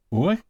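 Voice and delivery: "u" set apart as a lone sound; upsilon iota sound. Shown as a demonstration. Teacher showing Greek upsilon iota, sound demonstration. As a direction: say "u" as the gliding vowel in quit. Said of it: "Upsilon iota is pronounced as".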